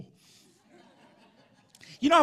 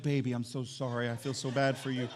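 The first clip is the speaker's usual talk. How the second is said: lower, softer consoling voice; mock sympathy; 4 semitones lower, 4 dB quieter than usual. Imitating husband consoling sore wife, mock sympathy. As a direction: console her with put-on tenderness.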